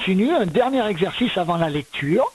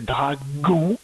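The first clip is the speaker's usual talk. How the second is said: slow "dragon" with "gon" set apart; split into syllables; 3 semitones lower than usual. Shown as a demonstration. Teacher sounding out the word for correction, split into syllables. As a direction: stretch "dragon" as "dra", then "gon". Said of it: "j'entendais le ge et le on".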